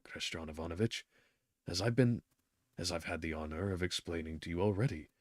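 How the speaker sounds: nervous patient, barely audible; timid Golyadkin. Acted. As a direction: apologize awkwardly, fumbling. Golyadkin apologizing haltingly.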